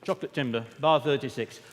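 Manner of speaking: a hint of the blunt northern director. Speaker quoting the choir director to the audience, lightly voiced. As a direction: call it out like the director, half-playful. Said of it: "when he said".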